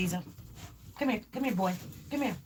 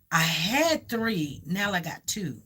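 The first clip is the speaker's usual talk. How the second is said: put-on slower, slightly lower retelling of a child; a hint of a child explaining, in short phrases; child's matter-of-fact telling; 4 semitones lower, slower than usual. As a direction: lightly imitate a little one counting grandpas. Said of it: "that's how he said it to me".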